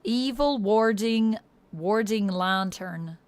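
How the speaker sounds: slow, strongly Irish-leaning accent. Shown as a demonstration. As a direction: draw the words out in an Irish accent. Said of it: "becoming very Irish here now".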